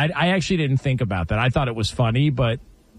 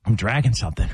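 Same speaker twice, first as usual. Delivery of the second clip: puzzled dad; 3 semitones lower, faster than usual. Retold or imitated. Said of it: "And he's like".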